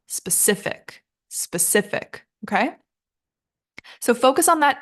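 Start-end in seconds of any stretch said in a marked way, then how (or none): 0.1-2.2 "specific" with the weight on ci; stress on second syllable. Shown as a demonstration. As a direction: say "specific" as spe-CI-fic. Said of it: "our stress is on the second syllable".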